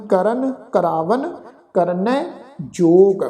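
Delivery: slow ਕਰਨ ਕਰਾਵਨ ਕਰਨੈ ਜੋਗ with dental n; measured ਕਰਨ ਕਰਾਵਨ ਕਰਨੈ ਜੋਗ, tongue at the teeth for ਨ; dental n recitation. Shown as a demonstration. Teacher models the scripture reading, dental n in ਕਰਨ ਕਰਾਵਨ ਕਰਨੈ. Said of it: "ਇੱਥੇ ਪਾਠ ਦਾ ਉਚਾਰਨ ਹੈ ਜੀ".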